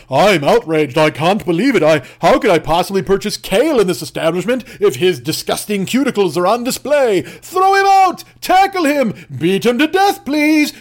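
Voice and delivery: mock fury rising into a screaming order; over-the-top rich lady shrieking for violence; outraged Karen. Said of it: "she'd be like".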